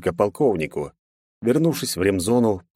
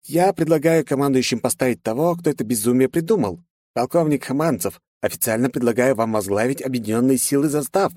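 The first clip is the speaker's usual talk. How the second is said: higher, solemn officer voice; formal commander; 6 semitones higher than usual. Acted. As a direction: propose him officially. Narrator voices dragon commander.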